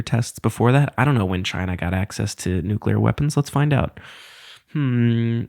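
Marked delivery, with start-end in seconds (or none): none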